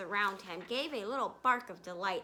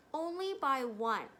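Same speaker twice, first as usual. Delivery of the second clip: stumbled wrong word order; reading slip, then corrected; misread; 3 semitones higher than usual. Real, not acted. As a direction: slip on the phrase. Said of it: "I'm sorry".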